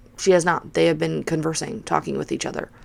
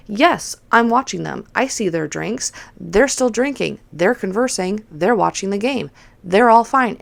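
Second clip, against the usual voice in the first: higher, emphatic itemised list; retold exasperated answer; 4 semitones higher, 3 dB louder than usual. Bartender defending herself to a nagging customer, exasperated. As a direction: tick off each point with pointed stress.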